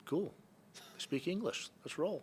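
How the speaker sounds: high, eager delight; excited. Retold or imitated. Hunters relieved to hear English, high and eager. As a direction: bounce it up high, thrilled. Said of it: "And we're like".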